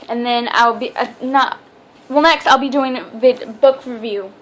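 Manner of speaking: tripping over words; stumbling, restarting words; stuttering. Real, not acted. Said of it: "I'm stuttering so much".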